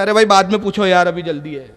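quick, dismissive, trailing away; hurried brush-off. Retold or imitated. Busy man brushing off a question, quick and dismissive. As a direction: rush it off like a busy traveller. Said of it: "تو کیا کرتا ہے؟".

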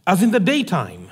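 measured, solemn reading of a Bible passage; scripture reading. Acted. Scripture reading opening the sermon.

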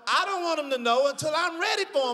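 panicked inner voice. Retold or imitated. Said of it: "So now I'm like".

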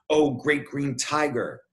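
lightly voiced beseeching child; pleading little girl. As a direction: draw out a humble address to a mighty beast. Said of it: "in a trembling kowtow".

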